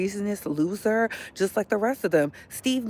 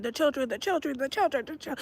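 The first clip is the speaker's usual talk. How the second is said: higher, quieter mock chant; mocking repeated cry; 6 semitones higher, 4 dB quieter, faster than usual. Mocking people who just repeat "the children", higher and softer. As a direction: parrot them back with a higher, softer voice. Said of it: "Y'all can't keep saying".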